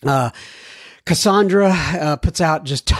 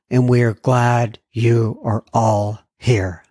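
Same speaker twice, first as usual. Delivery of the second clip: choked up; 5 semitones lower, slower than usual. Real, not acted. Host welcoming listeners, voice choking up with emotion. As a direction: voice catching, slow and low. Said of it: "Sometimes it gets to me a little bit".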